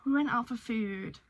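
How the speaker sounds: breathless, just back in; out of breath. Real, not acted. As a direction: say it panting, out of breath. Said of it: "Oh, I'm out of breath".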